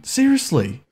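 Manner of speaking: high, indignant "Seriously" with a falling end; exasperated seriously. Real, not acted. Player griping at the game, high indignant "Seriously". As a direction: complain it up in pitch. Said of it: "I say seriously".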